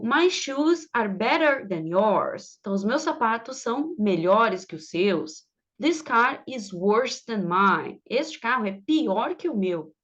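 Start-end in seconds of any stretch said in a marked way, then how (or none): 0.0-2.6 slow example read. Shown as a demonstration. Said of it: "teacher reads example sentence slowly". 5.8-8.0 slow example read. Shown as a demonstration. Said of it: "teacher reads example sentence slowly".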